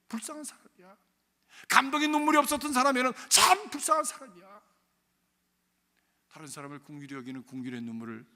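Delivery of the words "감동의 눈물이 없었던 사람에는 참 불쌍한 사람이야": loud, higher shouted preaching; preaching at full force. Acted. Preacher shouting to the congregation about tears of repentance. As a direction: thunder it at the pews.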